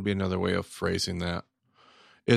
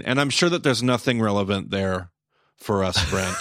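stressed SURE, heavy irony; sarcastic. Real, not acted. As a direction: say it dripping with irony. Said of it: "I digress, or do I?".

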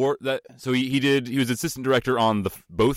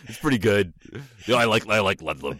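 nerd voice; 2 semitones lower than usual. Retold or imitated. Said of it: "it's your nerd voice".

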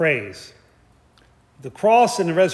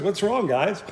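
laughing Jesus quote; 4 semitones higher than usual. Retold or imitated. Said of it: "Jesus goes".

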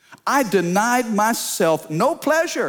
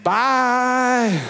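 gleeful shout; 5 semitones higher than usual. Retold or imitated. Parent shoos grown kids out.

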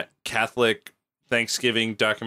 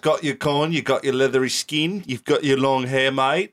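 put-on Cockney accent.

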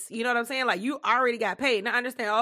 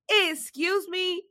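indignant; 6 semitones higher, much slower than usual. Real, not acted. Indignant retort, slow.

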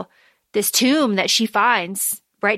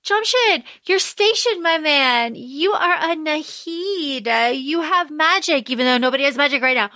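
hyped-up sister; 3 semitones higher than usual. Retold or imitated. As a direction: pump him up. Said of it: "Nari's like".

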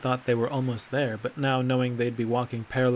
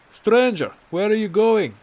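much higher and louder shout after him; calling out; 9 semitones higher, 11 dB louder than usual. Acted. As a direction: yell across to stop him. Calling after wandering companion.

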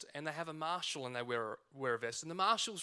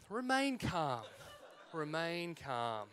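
measured self-soothing, settling slower and softer on the repeat; self-calming; 2 semitones lower, 5 dB quieter, slower than usual. Retold or imitated. Referee telling himself to stay calm under heckling, self-calming. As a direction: talk yourself down, acted out. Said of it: "I'm trying to remain calm".

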